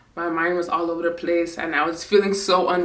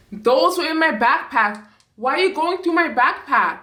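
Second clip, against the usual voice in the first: higher-pitched indignant confrontation, not yelling; mad; 5 semitones higher than usual. Retold or imitated. Daughter confronting mom over her searched backpack, mad. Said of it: "I was so mad".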